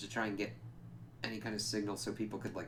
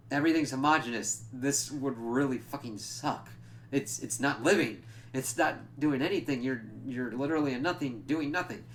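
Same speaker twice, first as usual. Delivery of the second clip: higher, louder mock rant at a dull utopia; a half-serious tirade, pitched up; Patsy scoffing hard at the crystal utopia, voiced higher and louder; indignant rant; 4 semitones higher, 4 dB louder than usual. Patsy ranting at Korvac's utopia.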